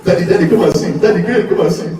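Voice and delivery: put-on high excited child's voice calling "Daddy, come and see". Child calls daddy to see a TikTok, high and eager. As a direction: call out like an eager little kid.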